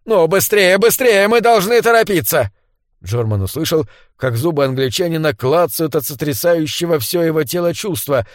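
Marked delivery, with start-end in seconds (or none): 0.1-2.5 high, louder, panicked urging; urgent pleading. A narrator's reading. Hunted Englishman hurries his companion along, urgent and panicky. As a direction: push each word to get him moving.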